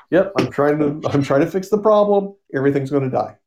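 high, sarcastic mock of a flustered excuse; mock Monitor.

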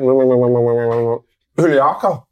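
drawn-out mock reading of Juliaka, very slow; imitating a slow, garbled Juliaka; slow mangled name. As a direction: stretch Juliaka out like a stumbling reader. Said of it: "and he's just went".

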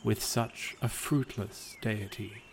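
calm, even storyteller read of a gentle fable; story narration. A narrator's reading. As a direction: tell it like a bedtime legend. Reads a fable aloud.

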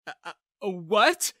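stutter, then a loud high "what"; shocked stammer. A narrator's reading. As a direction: blurt it out in disbelief. Shocked reaction to spy confession.

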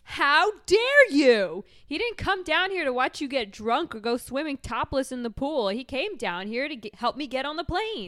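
high, dramatic indignant housewife; outraged housewife. Acted. Housewife defending her husband to friends, high outraged scolding.

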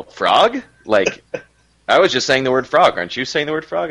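playing innocent, rising on frog; dad fakes that he only said frog, to his toddler, mock innocent; feigned innocence. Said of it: "And then I'll go".

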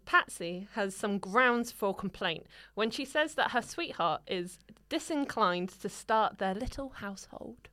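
put-on measured old-fashioned agony-aunt read; formal reading. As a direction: read the advice like a prim columnist. Reads the columnist's reply.

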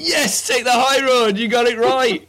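loud, high, drawn-out gameshow cheer; slow triumphant yes; excited. Real, not acted. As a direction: crow it like a quiz host. Quiz host celebrating right answer.

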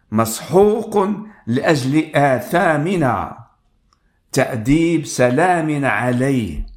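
slow, solemn reading of scripture. Acted. Preacher reading Isaiah to the congregation, slow and solemn. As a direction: read the prophecy slowly and gravely. Reads Isaiah passage aloud.

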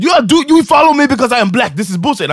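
high, loud mock outrage trailing away; protest fading out. Ejected passenger walking off, angry protest fading out. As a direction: start high and loud, then recede. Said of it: "as his voice got faded out".

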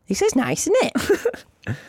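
dreamy shopper, fake-sweet; mock girlfriend. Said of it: "and goes".

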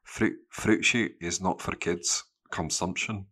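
slow, lightly voiced Scottish mum; freak mum in Scottish accent. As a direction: pronounce it slowly with a Scottish accent. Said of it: "like, a freak mum that said".

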